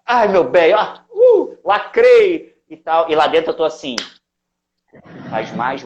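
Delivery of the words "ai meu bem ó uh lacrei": high, showy diva voice with a laugh; mock diva. Showing off to the world outside in a mock high diva voice. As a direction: ham up the fabulous diva, laughing. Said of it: "por fora a gente tá assim".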